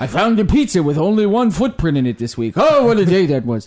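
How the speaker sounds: bad high, loud, swooping cartoon character voice. Quoting a cartoon line he loves, Zoidberg voice. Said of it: "I don't even do a good Zoidberg".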